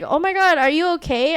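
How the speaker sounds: a lightly acted worried check-in; imitated concerned cousin. Cousin checking on her as she chokes, lightly alarmed.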